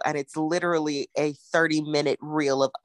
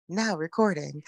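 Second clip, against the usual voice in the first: customer service voice; 4 dB quieter than usual. Shown as a demonstration. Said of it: "it's my customer service voice".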